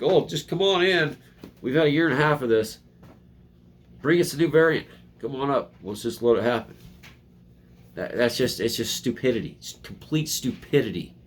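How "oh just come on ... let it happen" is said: higher, louder mock-breezy voice; sing-song sarcastic open-door invite; mocking carefree welcome. Mocking officials who let the variant in, high sarcastic welcome.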